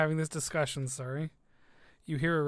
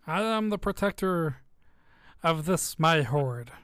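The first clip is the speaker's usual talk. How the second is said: dragon voice; 5 dB louder than usual. Acted.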